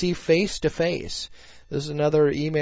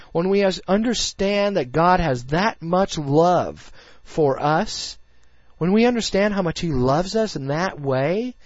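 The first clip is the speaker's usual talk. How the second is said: earnest preaching; 3 semitones higher than usual. Real, not acted. Host assuring struggling Christian listeners that God saved them, earnest preaching. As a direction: preach it with conviction, stretching the weighty words.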